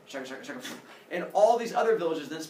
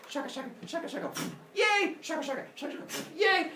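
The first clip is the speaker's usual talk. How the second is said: put-on childish yay; 12 semitones higher, faster than usual. Humans playing with fire sticks.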